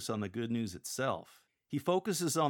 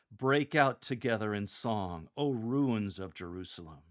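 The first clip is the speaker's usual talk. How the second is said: louder, rousing; joy and energy; 3 dB louder than usual. Shown as a demonstration. Lector calling on the ruins with joyful energy. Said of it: "speak these words with joy and energy".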